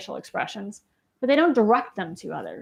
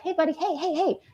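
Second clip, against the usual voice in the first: calling for attention; 6 semitones higher, 3 dB quieter than usual. Retold or imitated.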